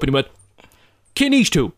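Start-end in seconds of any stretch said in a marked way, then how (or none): 1.1-1.7 high-pitched, urgent demand; pitched-up, amazed question in Irish; retold stunned question. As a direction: imitate a friend leaping up in disbelief. Retold stunned friend questions the hawker.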